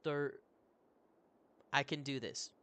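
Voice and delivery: a hint of a gruff beast-man, halting words; broken-speech horse creature. Roach answering the adventurer, lightly voiced creature. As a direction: speak like a proud horse-man with few words. Roach explaining his mate.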